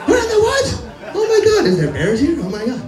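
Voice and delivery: hammed-up freak-out; mock panic. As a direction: squeal like a scared kid in the woods. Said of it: "We're like".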